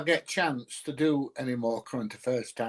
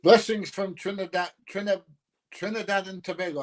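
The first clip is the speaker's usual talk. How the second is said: cheery greeting; 6 semitones higher than usual. Real, not acted. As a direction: greet the viewer with gusto. Reading a viewer's greeting.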